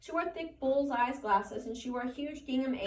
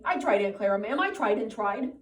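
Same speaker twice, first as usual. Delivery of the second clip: pleading; 8 dB louder than usual. Acted. Lenny pleading with Aunt Clara.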